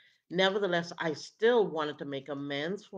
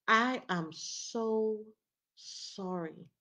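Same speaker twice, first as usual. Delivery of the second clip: heartfelt apology; 6 semitones higher, much slower than usual. Acted. Acted heartfelt apology after accusation.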